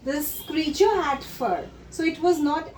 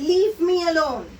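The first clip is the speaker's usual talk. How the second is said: creature shouting; 2 semitones higher, 5 dB louder than usual. Acted. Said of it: "This creature shouted".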